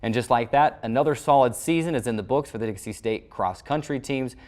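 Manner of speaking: steady, polished anchor read over the recap; sports news read. Acted. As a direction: read it like a weekly sports wrap-up.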